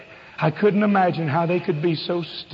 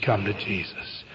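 very soft, low call; hushed, tender beckoning; tender invitation; 9 semitones lower, 8 dB quieter than usual. Acted. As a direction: drop low and invite gently. Voices the Spirit's tender call.

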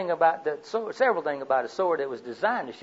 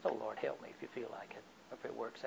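casual mock prayer; 4 semitones lower, 17 dB quieter than usual. Shown as a demonstration. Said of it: "Not just a casual request".

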